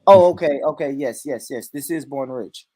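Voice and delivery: lightly put-on posh phone manner, country underneath; posh accent attempted by a country speaker. Shown as a demonstration. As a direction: play a formal, polite posh caller. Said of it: "I got a country posh voice".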